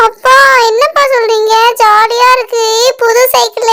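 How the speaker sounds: thrilled, lifted voice with stretched words; delighted excitement. Acted. Child thanks father for new bicycle, excited and delighted.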